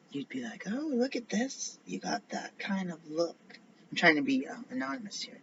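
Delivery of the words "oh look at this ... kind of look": high-pitched mock admiration; put-on high "look at this" voice; imagined admirer. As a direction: show it off in a raised voice. Acted admiring remark about furniture.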